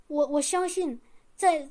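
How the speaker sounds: ordinary delivery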